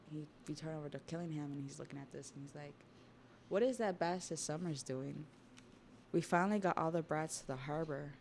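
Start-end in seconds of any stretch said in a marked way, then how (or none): 3.5-8.1 mildly indignant, acted-out grumble; a touch of exasperation, pushed a little louder; irritated complaint. Killingham complaining about what Summers is doing, mildly irritated.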